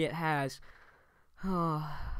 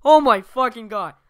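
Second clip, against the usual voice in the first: high, loud screaming curses; over-the-top swearing rant; 3 semitones higher, 13 dB louder than usual. Pretend. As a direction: freak out and swear nonstop. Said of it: "swear a ton, like, way over the top".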